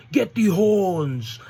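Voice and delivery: loud, high, drawn-out shout; mock battle cry. Rush dragging his opponent outside, mock drawn-out yell. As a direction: stretch it into a hammed-up roar. Imitating the wrestler's move call.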